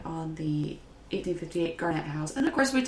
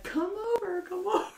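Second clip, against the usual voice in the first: calling out; 12 semitones higher than usual. Retold or imitated. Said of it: "waving at me, like".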